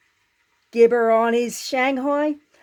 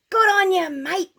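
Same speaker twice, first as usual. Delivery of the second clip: mild mock cheer; 8 semitones higher than usual. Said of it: "yelled all the diggers".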